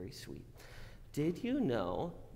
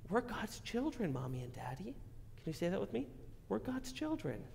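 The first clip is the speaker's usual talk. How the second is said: put-on broad singsong kids theatre; 8 semitones higher, 5 dB quieter than usual. Teaching kids to repeat.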